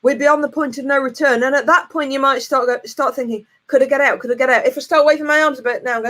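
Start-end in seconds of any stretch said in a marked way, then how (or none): 3.7-6.1 mock panic. Panic on locked roller coaster.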